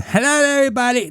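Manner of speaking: high, fast mock deaf-accent voice. Retelling the cashier's nightly page, high mock voice. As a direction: rattle it off high like her overhead page. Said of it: "she had deaf accent".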